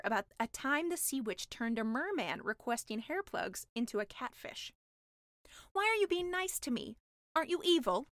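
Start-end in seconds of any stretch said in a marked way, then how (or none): 5.7-8.1 higher, wary mermaid; suspicious mermaid. Acted. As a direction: ask it with doubt.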